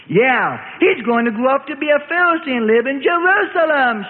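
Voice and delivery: high, loud jeering call; gleeful shout. A narrator's reading. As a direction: crow it out to the whole crowd. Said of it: "shouted the biggest lad in glee".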